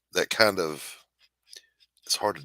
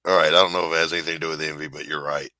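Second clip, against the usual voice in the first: retold grudging admission; 4 dB louder, faster than usual. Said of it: "He's like".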